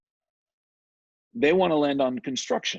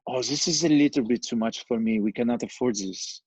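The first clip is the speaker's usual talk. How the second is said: put-on Haitian accent. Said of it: "she was just so cute".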